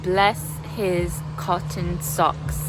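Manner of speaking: slow Northern attempt slipping towards Canadian; attempted Northern English accent. Shown as a demonstration. Pupil copying her coach slowly, Canadian-tinged Northern accent. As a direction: try a Northern accent, word by word. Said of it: "almost just sounded like Canadian".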